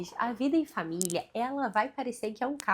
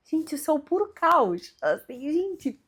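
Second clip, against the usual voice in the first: higher, louder mock exasperated cry; meme exclamation; 5 semitones higher, 6 dB louder than usual. Mother with three crying kids exclaims, higher and louder. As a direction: announce the chaos like a meme. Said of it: "parecia aquele meme".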